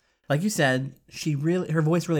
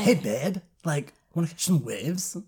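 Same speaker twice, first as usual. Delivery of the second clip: surfer stoner voice; 3 semitones higher than usual. Retold or imitated. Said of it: "sounded like surfer stoners".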